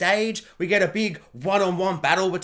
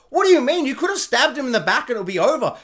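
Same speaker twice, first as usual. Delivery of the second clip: exasperated; 4 semitones higher than usual. Retold or imitated. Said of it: "And I'm just like".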